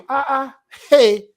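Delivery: hammed-up "hey, look at this!" voice; imitated shocked realization. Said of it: "That's how they'll say it".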